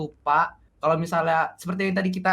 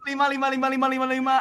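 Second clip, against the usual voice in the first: forced laughter; 6 semitones higher than usual. Pretend. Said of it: "kita ketawa ngakak untuk closing".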